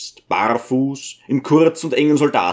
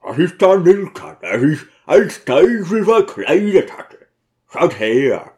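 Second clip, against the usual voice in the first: called out the window, higher and louder; shouting to the crowd; 4 semitones higher, 4 dB louder than usual. Acted. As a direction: yell it down to the street below. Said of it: "hinaus und rief".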